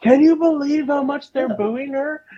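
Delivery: play-acted shout over noise. Recalling a crowd booing at a show, retelling a yell over noise. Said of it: "we had to yell at each other to go".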